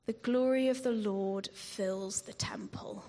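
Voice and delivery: hushed, awed whisper; reverent whisper. Real, not acted. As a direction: let it fall to a whisper of awe. Preacher dwelling on God's glory.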